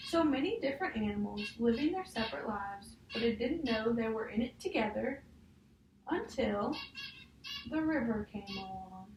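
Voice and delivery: put-on reading a picture book aloud to a child; measured storybook read, each page leading to the next; story reading. Teacher reading a picture book to a child, storybook voice.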